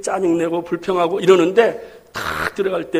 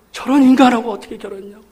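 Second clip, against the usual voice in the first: fast mock grumble; 3 semitones higher, faster than usual. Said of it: "그러면서 그러잖아요".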